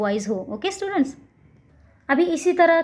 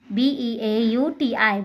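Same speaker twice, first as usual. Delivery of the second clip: slow spelling out; much slower than usual. Shown as a demonstration. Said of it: "बना के दिखाया है ना".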